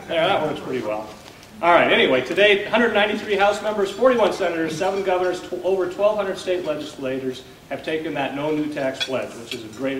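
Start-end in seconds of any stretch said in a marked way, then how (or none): 1.6-7.4 speaking up for the back; projecting to the room; louder. Real, not acted. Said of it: "Need to talk louder?".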